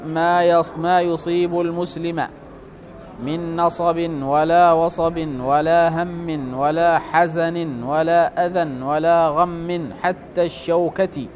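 slow, measured recitation of a hadith; formal text reading. Acted. Teacher reading a hadith to students, formal measured recitation. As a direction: read it out formally, drawing out each phrase.

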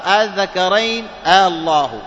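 "الذكرين الله" slow and loud, opening vowels held long; questioning hamza, lengthened. Shown as a demonstration. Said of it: "جاء بهمزة الاستفهام". ("الذكرين الله" بمد الهمزة مدًا طويلًا)

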